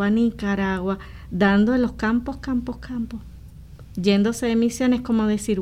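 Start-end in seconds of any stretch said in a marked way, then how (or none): 2.4-3.2 whispered echo. Real, not acted. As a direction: whisper the repeat, fading out. Trailing repeat of the word. (susurrando la repetición)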